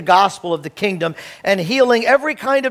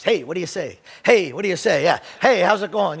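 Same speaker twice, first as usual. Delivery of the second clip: casual passing greeting. Shown as a demonstration. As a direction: toss off hellos like a passerby in a crowd. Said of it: "that's not how I'm using it".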